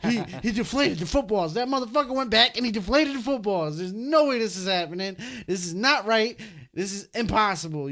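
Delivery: indignant, incredulous sports-fan rant; retold disbelief. Fan protesting at the TV during the comeback, retold in heated disbelief. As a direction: re-enact stunned protest, leaning on key words. Retelling his outburst at comeback.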